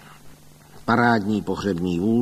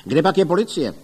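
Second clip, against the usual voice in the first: louder, high call over the crowd; 6 semitones higher, 5 dB louder, faster than usual. A narrator's reading. Neighbour calling for the police amid the commotion, loud. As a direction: shout for the police. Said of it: "volal do toho Ostrohradský".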